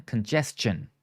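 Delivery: "Congestion" with a CH in the last syllable; CH sound. Shown as a demonstration. Teacher modelling the word for students, "Congestion" with a CH sound. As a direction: say "Congestion" as con-JES-chun. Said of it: "say it with the C H sound".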